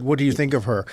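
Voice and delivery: "What do you think of her?" with a falling end, not asked; said as a statement. Shown as a demonstration. Acting student showing a question read without asking, said as a statement. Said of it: "I said it as a statement".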